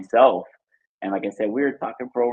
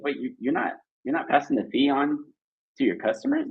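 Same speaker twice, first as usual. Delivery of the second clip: halting, softer question climbing high; mock disbelief, rising at the end; incredulous question; 5 semitones higher, 3 dB quieter than usual. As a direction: imitate a puzzled wife double-checking. Wife questions merchant's fees in disbelief.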